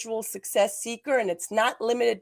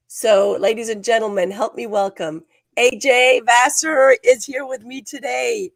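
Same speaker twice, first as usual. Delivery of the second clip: louder, rising host intro to bring on the guest; announcer welcome; 6 dB louder than usual. Real, not acted. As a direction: call the guest onstage like a show host.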